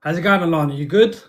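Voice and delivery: thick Essex accent, casual greeting; broad Essex London twang. Real, not acted. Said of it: "That is a thick Essex accent you have there".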